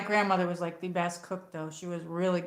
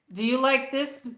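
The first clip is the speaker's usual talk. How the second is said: imitating grandma's Italian accent, higher pitch; accento italiano; 6 semitones higher than usual. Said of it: "she had, like, an accent".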